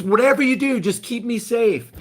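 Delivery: a scared citizen pleading, hammed up; mock pleading. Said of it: "It's just".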